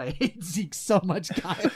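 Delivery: laughing through the complaint; laughing exasperation. Real, not acted. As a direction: break into laughter while venting. Cracks up after own impression.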